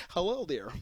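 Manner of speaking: nicest guy. Pretend. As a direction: greet the dad sweetly. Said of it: "I'm just gonna be the nicest guy".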